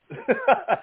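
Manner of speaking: short, high chuckle; relieved laugh. Real, not acted. Host apologizing to panel for opening up, light laugh. Laughs after emotional speech.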